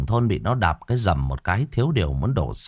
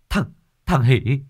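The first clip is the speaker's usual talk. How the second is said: stammer, then climb much higher in panic; panicked cry; 12 semitones higher than usual. Acted. Hoan tells the village head Hỷ died, high panicked stammer. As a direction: blurt the terrible news, voice soaring. Boy reports friend's death.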